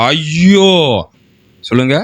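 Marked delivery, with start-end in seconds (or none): 0.1-0.7 drawn-out, rising cry of woe; wailing lament. Acted. Preacher reads the king's cry of woe to the congregation, wailing. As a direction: moan it out like a king in despair. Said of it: "ஐயோ அப்படிங்கிறதுக்கு பேரு தான் torture".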